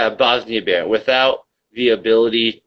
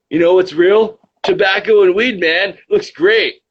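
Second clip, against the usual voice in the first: loud, shrill, very high derisive mocking voice; 9 semitones higher, 5 dB louder than usual. Reading back a comment to mock its writer: mocking imitation of a commenter. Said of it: "I'm mocking you right now".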